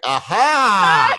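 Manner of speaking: a gleeful laughing "Aha!"; gotcha, with a laugh. Retold or imitated. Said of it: "I'm like".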